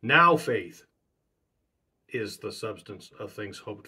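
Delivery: Now faith ringing out loud, rest of the verse dropped back; stress on NOW. Shown as a demonstration. Preacher demonstrating another way to read Hebrews eleven. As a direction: belt out Now faith, then settle into the verse. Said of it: "That's one way to say it".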